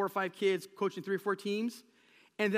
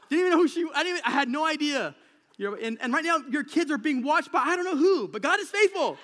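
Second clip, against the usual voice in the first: laughing confession; 8 semitones higher, 11 dB louder than usual. Real, not acted. Sheepish joke to congregation.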